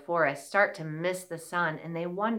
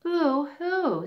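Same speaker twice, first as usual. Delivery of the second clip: high pretend mouse sob; a hammed-up little boo-hoo; mock crying; 7 semitones higher than usual. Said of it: "she started to cry".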